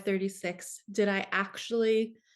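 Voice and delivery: plain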